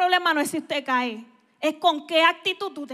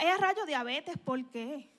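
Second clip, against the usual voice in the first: mock bewildered complaint; slower than usual. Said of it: "Y usted dirá".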